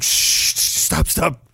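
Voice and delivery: hushed, breathy shushing; imitating a whisper. Movie soldier whispering to a dying man, hushed. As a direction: shush him like a killer calming a victim. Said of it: "whispering to him in German".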